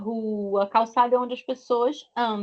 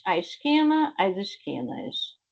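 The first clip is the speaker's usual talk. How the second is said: teacher drilling the plural; singular-plural drill; 3 dB quieter than usual. Shown as a demonstration. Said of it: "pra ter o plural".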